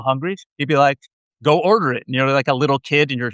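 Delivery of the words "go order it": put-on Israeli accent. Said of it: "in a heavy Israeli accent".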